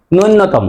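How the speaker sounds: নূন্যতম as "nunnotomo", doubled n; common mispronunciation. Shown as a demonstration. Teacher shows what many say, doubled n in নূন্যতম. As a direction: say নূন্যতম with a long nn. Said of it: "আমরা অনেকেই বলি".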